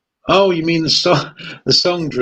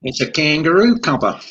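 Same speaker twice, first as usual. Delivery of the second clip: mock Australian; 2 semitones higher than usual. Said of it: "I can do an Australian".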